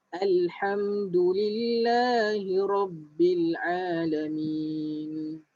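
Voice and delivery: slow, drawn-out tajwid recitation; slow Quran recitation. Shown as a demonstration. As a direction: recite it slowly for students to follow. (bacaan tajwid perlahan)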